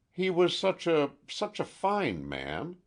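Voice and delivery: choked up, slowing, holding back sobs; words breaking on stifled sobs. A narrator's reading. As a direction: fight the tears through the words. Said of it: "stifled sobs impeded her speech".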